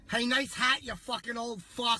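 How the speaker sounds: put-on yelling at old people. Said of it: "I'm gonna yell at these old people".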